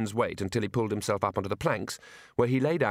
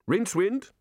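calling out; 9 semitones higher than usual. Acted. Calling up from below.

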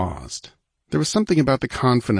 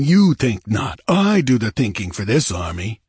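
angry disbelief; 4 dB louder than usual. Acted. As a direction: snap back in disbelief. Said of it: "Olgerd glared, his quick temper irritated".

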